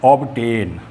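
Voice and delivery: ऑब्टेन with b heard before t; "ob-tain", both consonants in ऑब्टेन; sounded B. Shown as a demonstration. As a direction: say ऑब्टेन voicing the b fully. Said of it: "टी से पहले बी को बोल रहे".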